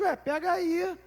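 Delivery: put-on high, offhand little-girl voice; casual toddler. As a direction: toss it off like it's nothing, as a small child. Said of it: "falou na maior naturalidade".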